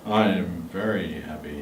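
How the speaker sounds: deep and low; low pitch. Shown as a demonstration. The speaker saying happy in a low tone. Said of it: "in a very low tone".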